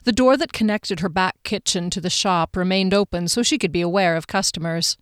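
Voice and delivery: measured, even audiobook reading; story narration. A narrator's reading. Narrator sets the scene in Sandra's kitchen, measured storytelling. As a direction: read the scene evenly and carefully. Reads the novel aloud.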